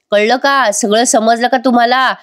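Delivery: a hammed-up yell at everyone; shouting. Son yells at family about blame, mild mock shout. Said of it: "मोठ्या मोठ्याने आरडाओरडा करतो".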